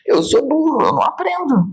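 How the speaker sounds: put-on high little-child voice, defeated; a child's high, sad acceptance; childlike voice. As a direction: voice a child who believes he's stupid. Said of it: "Ela deve saber mais".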